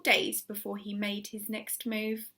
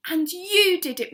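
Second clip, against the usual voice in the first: high, loud delighted praise; grateful cry; 7 semitones higher, 8 dB louder than usual. A narrator's reading. Missus Silver thanking Mister Hoppy, delighted cry. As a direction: praise him warmly. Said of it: "Missus Silver cried".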